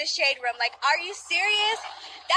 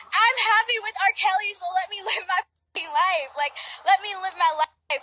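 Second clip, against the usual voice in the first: a voice breaking into tears; tearful outburst; 4 semitones higher than usual. Real, not acted. Girlfriend telling critics to let her live, tearfully. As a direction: plead through a sob to be left alone. Defending her relationship, getting upset.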